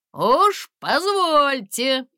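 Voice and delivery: slow, loud indignant protest. Acted. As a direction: voice from the forest objects, outraged. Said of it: "возмутился голос из леса". (возмущённо, медленно и громко)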